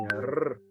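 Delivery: rr as a trilled, vibrating r; rolled r. Shown as a demonstration. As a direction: roll the rr with the tongue tip. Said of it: "esse R mais vibrante, assim". (rr vibrante, com a ponta da língua)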